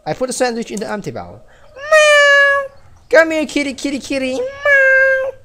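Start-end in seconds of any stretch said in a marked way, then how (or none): 1.7-2.8 very high mock meow; cat meow. Imitating the game cat. 3.1-4.3 higher, coaxing call to the kitty; calling a cat. Acted. 4.3-5.3 very high mock meow; cat meow. Imitating the game cat.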